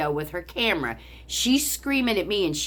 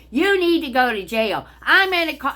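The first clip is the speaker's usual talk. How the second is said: mock Karen; 7 semitones higher, 5 dB louder than usual. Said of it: "taking videos of me".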